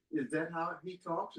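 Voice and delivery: imitating grandkids. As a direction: ask it as the amused grandkids would. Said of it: "and they said".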